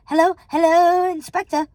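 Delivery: high, loud, eager phone greeting; stammering man. A narrator's reading. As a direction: answer the phone flustered and high. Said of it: "he stammered".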